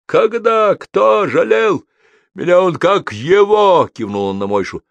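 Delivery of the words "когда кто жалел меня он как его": much higher, louder enraged yelling; furious shout. A narrator's reading. Convict Andrey raging that nobody pitied him, shouting. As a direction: hurl every word in rage. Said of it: "бешено закричал вдруг Андрей".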